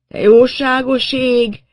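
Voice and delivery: high, drawn-out, loud groan; aghast, stretching every word; groaned dismay. A narrator's reading. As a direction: groan in horrified astonishment. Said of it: "nyögte a kecske szakállas".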